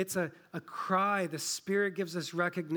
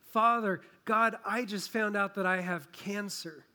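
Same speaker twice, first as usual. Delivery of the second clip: anguished cry. Retold or imitated. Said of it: "It's a cry that says".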